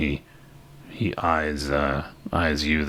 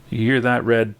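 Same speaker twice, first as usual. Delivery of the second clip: raised, higher call to a companion; calling over; 7 semitones higher, 5 dB louder than usual. Acted. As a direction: call it across to your mate, pitched up. Sheriff calls over to Red.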